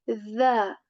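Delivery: "the" as soft Arabic dha, tongue tip on the upper teeth; "the" said as a soft dh with the tongue between the teeth. Shown as a demonstration. Teacher shows students the soft dha sound. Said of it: "tip of the tongue touches the tip of our upper teeth".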